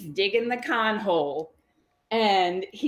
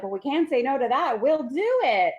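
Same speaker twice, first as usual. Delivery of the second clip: acted eagerness, rising louder to the end; eager agreement; 4 semitones higher, 4 dB louder than usual. Mom and Pa accept the salesman's offer, acted eagerness. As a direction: play a couple happily giving in.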